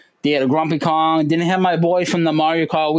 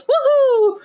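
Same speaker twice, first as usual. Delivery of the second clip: very high, louder "Woohoo!" in Mario's voice; 4 dB louder than usual. Retold or imitated. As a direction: whoop it like the game character. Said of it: "he goes".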